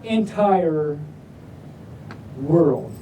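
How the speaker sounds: low, slow ominous entire world; dramatic drop. Shown as a demonstration. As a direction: drop low for the spooky reveal.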